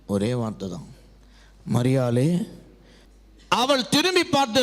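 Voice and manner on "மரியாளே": low voice lifting at the end; gentle calling. Acted. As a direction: call her name as Jesus would, much lower. Jesus calls Mary, repeated. (தாழ்ந்த குரலில் பெயர் சொல்லி அழைத்தல்)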